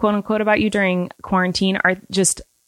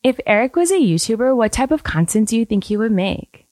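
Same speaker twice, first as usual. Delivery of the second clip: Ella impression; 2 semitones higher than usual. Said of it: "I think Ella would talk like this".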